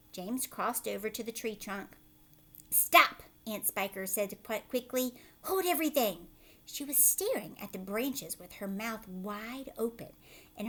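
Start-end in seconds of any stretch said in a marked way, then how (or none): 2.7-3.2 high, loud sudden command; sharp loud stop. Acted. Aunt Spiker stopping James from climbing. 5.4-6.3 high, loud sudden command; sharp loud stop. Acted. Aunt Spiker stopping James from climbing.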